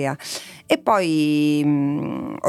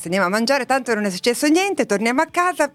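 retold resigned quote; 6 semitones higher, faster than usual. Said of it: "E a un certo punto ho detto".

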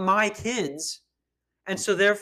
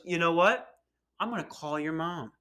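imitated threatening teacher. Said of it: "She said it like that".

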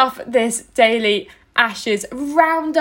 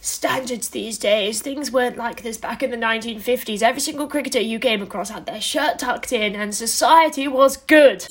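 put-on grumpy old club bloke. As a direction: drag it out like a fed-up club regular. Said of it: "my impression of the average bloke at your local cricket club".

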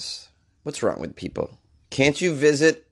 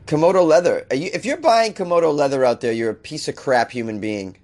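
exasperated rant, pitched up; indignant; 4 semitones higher than usual. Real, not acted. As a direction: scold the buyers in disbelief.

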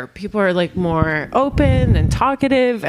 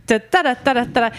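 "Da, da, da" bouncing in a lilting Swedish rhythm; Swedish sing-song melody; 3 semitones higher than usual. Shown as a demonstration. Host demonstrating how Swedes talk, sing-song melody on "da, da". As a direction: lilt each "da, da" like Swedish speech. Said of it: "a melody to their speaking".

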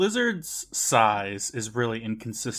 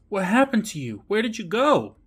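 higher, urgent questions; imitated worried questioning; 9 semitones higher, 4 dB louder than usual. Host as Sheena questioning her brother, higher mock demand. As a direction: play a sister demanding answers, pitched up. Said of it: "Sheena asks".

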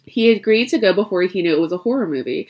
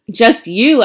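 louder sharp retort; snapped; 5 semitones higher, 7 dB louder than usual. A narrator's reading. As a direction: bite the words back at her. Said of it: "Adam snapped".

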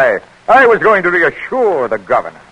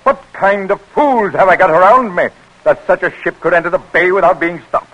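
raised, outraged questioning; indignant outburst; 5 semitones higher than usual. Acted. Commissary scolding his advisors over the ship, indignant. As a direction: let the outrage climb toward the end.

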